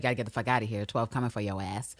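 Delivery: a quiet low tip-off; low urgent warning. Retold or imitated. Constantine warning Villanelle that Raymond's people are coming. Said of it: "He's like".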